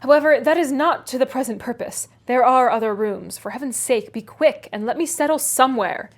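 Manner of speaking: sarcastic gentleman. Acted. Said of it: "I could not refrain from observing".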